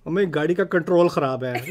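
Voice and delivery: control said American-style inside Urdu; quick Urdu line with American control; American-accented English word. Shown as a demonstration. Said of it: "I'm not gonna do that".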